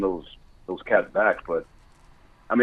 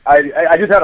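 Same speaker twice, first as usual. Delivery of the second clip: ordinary talk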